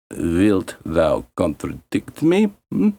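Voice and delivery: lightly voiced cold stepmother; stepmother's threat. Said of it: "said the stepmother".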